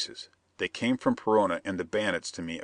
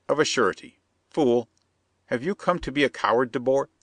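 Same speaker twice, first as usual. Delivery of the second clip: higher, insistent foreign plotter; scheming Perona; 5 semitones higher, 3 dB louder than usual. Acted. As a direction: press the bandit, sly and eager.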